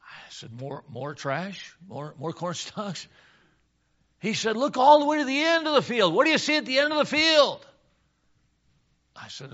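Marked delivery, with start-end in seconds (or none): 0.5-3.1 slow, soft, halting guesses; unsure boy. Acted. 4.6-7.7 raised, high-pitched urging; exasperated dad. Acted.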